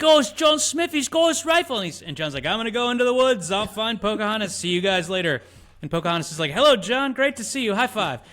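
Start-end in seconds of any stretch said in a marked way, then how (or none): 0.0-1.8 much higher, louder cartoonish voice; mock movie voice. Mocking the movie's dialogue to a co-host, squeaky and loud. 2.4-5.4 mock John Smith. Mocking John Smith for a co-host, high and hammy. 6.5-8.2 much higher, chirpy cartoon voice; mock Pocahontas. Mocking Pocahontas's greeting to John, high and chirpy.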